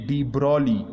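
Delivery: डी ब्रॉली repeated, stress on ब्रॉली, G silent; correct pronunciation. Shown as a demonstration. Teacher to students, repeating the correct name. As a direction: say डी ब्रॉली again, no G sound. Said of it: "जी को आपने silent करना है".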